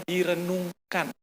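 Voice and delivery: direnungkan drawn out slowly, each syllable separate; preacher pressing the word direnungkan on listeners, slow; stressed key word. Shown as a demonstration. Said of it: "Harus direnungkan".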